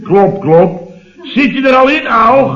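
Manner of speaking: high mock wife calling through a door; wife calling through the bathroom door, high voiced. Doemie calls through bathroom door.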